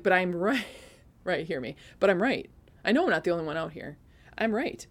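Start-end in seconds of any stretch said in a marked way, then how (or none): 0.0-0.6 louder, mock-stubborn objection; insistent protest. Retells arguing back to her coach. 2.0-4.9 louder re-enacted protest, emphatic on each claim; stubborn insistence. Retells insisting she is right.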